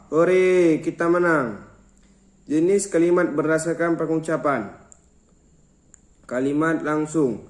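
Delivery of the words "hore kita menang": mild demonstration cheer, louder on the first word; high-toned exclamation. Shown as a demonstration. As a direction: punch "Hore" louder, then ease off, like a textbook cheer. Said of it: "bernotasi tinggi".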